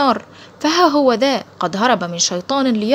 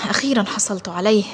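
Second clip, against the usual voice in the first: elated. Acted. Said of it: "قائلا في نشوة".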